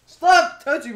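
loud, slow angry demand; angry yell. Real, not acted. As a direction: bellow it at him. Friend grabbing him, yells.

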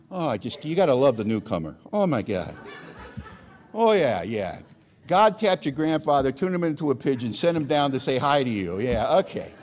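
mock-impressed, eye-rolling scoff with a laugh; sarcastic inner thought. Judging the newcomer's pigeon tale, sarcastic scoff.

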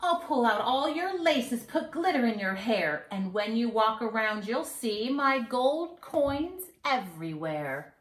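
put-on sing-song rhyme for kids; mischievous leprechaun. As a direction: read it like a cheeky little leprechaun bragging. Teacher reads leprechaun's rhyming lines.

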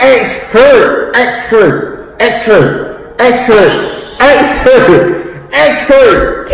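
words mushed by a mouthpiece; wearing a mouthguard. Real, not acted. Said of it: "the person with the mouthpiece in reads a card".

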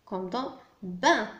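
bain said slowly to show the nasal un sound; teacher drawing out bain for the class; slow sound demo. Shown as a demonstration. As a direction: linger on bain so pupils hear the un.

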